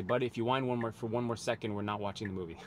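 retold calm fatherly warning; calm, loving sternness. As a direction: warn a child firmly without anger. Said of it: "very stern, but in a loving way, in a calm way".

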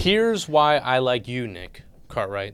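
slow, softening heart-to-heart; fatherly speech. Acted. Host gives guest the speech his dad never gave, fatherly. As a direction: give a mock fatherly talk, slowly. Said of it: "I'll give you the speech".

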